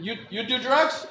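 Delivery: imitated Japanese-accented interrogation; Japanese judge. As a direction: question him as a Japanese judge. Judge questions him, acted.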